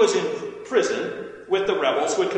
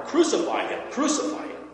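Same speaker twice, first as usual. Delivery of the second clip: high, insistent crowd cry; narrated outcry, only moderately loud; crowd crying out louder; 13 semitones higher than usual. A narrator's reading. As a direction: repeat it as a mob's demand, pitched high. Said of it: "they cried out all that much louder".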